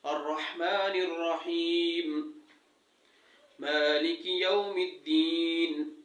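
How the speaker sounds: slow, drawn-out tajweed recitation; Quran recitation. Shown as a demonstration. Teacher reciting Fatiha to students, slow and measured. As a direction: recite each word slowly and carefully.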